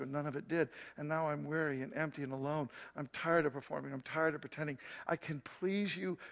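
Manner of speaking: a soft, mumbled retold prayer with a touch of tears; mumbled through sobs. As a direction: quietly mumble it as if near tears. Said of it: "I mumble through my sobs".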